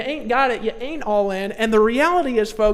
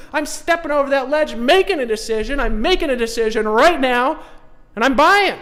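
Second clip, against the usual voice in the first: rising from firm to loud, pumped-up buyer; climbing to a loud, all-in cheer; building excited buyer; 2 semitones higher, 4 dB louder than usual. Retold or imitated. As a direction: act the prospect who finally jumps in, getting louder. Acted buyer deciding to buy.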